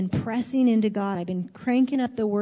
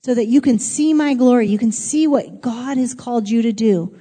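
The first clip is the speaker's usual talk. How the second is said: voicing God declaring; 6 dB louder than usual. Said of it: "God says".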